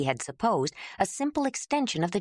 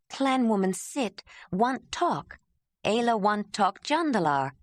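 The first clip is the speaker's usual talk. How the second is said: slow, halting broken speech, a touch raised; halting Ayla; 4 semitones higher than usual. Acted. Ayla kneeling, asking Jondalar to let her speak, halting. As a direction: carefully place each simple word.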